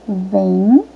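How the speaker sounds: "Ventilador" in four separate syllables; separação silábica. Shown as a demonstration. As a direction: pause after each syllable of "Ventilador": ven, ti, la, dor. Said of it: "Vamos de novo". ("Ventilador" pausado, sílaba por sílaba)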